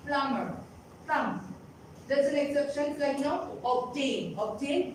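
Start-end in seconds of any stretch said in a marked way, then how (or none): 0.1-1.4 "plumber" and "thumb" with no B sound; silent B. Shown as a demonstration. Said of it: "B is always silent". 3.6-4.9 OBTAIN with the B sounded; "obtain" said as ob-tain; audible B. Shown as a demonstration. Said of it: "B is audible".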